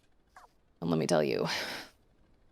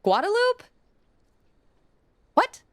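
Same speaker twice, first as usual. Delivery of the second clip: incredulous; 14 semitones higher, 5 dB louder than usual. Retold or imitated. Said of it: "I was like".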